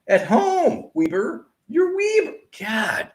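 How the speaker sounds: high, loud, exasperated shout; fed-up fan yelling at Weber; angry outburst. Real, not acted. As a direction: yell at the team in disbelief. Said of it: "I get so angry".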